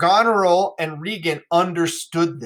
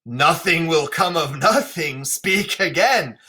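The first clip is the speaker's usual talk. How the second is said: Lear's warning; slower than usual. Acted. Lear warns Cordelia.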